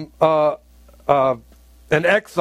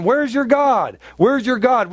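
higher, jeering mock of the Gentiles; mocking taunt; 5 semitones higher, slower than usual. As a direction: taunt him as his scoffers would. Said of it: "him, going".

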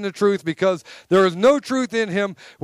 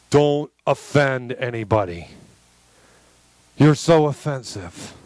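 lower, mocking take on the preachy crowd; mocking prissy voice; 7 semitones lower than usual. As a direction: sneer it like a prim scold. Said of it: "We say".

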